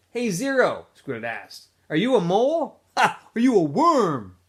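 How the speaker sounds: high, loud jeering; mocking taunt. A narrator's reading. Squid jeering at Zero about being a mole, high and loud. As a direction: tease Zero with a laugh.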